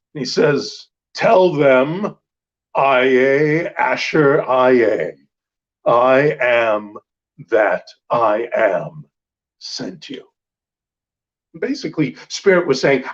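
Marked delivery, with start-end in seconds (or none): 1.1-10.2 very slow, commanding, authoritative divine voice. Retelling the burning bush answering Moses: commanding voice of the bush. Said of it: "this is a very commanding voice from this bush".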